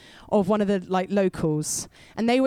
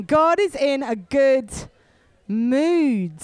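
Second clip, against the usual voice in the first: louder, with more force; say it again louder; 3 semitones higher, 4 dB louder, slower than usual. Shown as a demonstration. Preacher urging the church to repeat it louder. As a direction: declare it louder to the room. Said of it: "Say it again".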